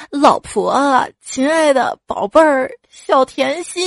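mock wheedling endearments; sweet-talking coax. Husband coaxing his sulking wife with pet names, mild mock sweet-talk. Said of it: "就去哄他老婆".

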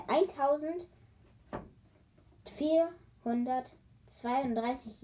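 drawn out while counting; slowly reckoning the number aloud; slow calculating. Real, not acted. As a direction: stretch the number out as you work it out. Repeats the figure, still slow.

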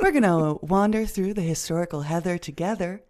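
light mock public radio host; a touch of radio presenter delivery; NPR voice. Host carries on the podcast intro in a light NPR voice. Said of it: "doing my N P R voice".

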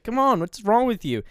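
loud, high Aussie scolding; poor Australian accent. Retold or imitated. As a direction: berate them in mock Australian. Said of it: "really poor Australian accent".

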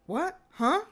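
imitated rattled caller, high and loud; high, startled bursts of confusion; too panicked to take in the question; frantic. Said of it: "He sounds frantic".

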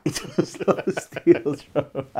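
slow, booming playful repeat; mock grand echo. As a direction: echo the joke like a grand proclamation. Echoing co-host's joke playfully.

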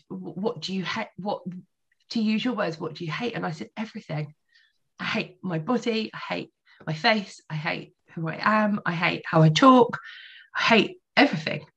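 real, tearful and halting; emotional. Real, not acted. Retelling her therapy confession of self-hate, choked up. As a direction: fight back tears while retelling a painful confession. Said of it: "God, it's really emotional".

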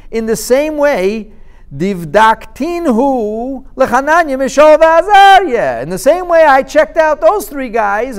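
loud, high, sly threat; king calmly daring them into the fire; scheming king. Acted. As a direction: lay the trap with relish. King tests the prophets.

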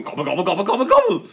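lightly acted gobble, climbing at the end; hint of a gobbling creature; gobbling animal. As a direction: gobble like a farm bird, rising. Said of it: "do they walk around going".

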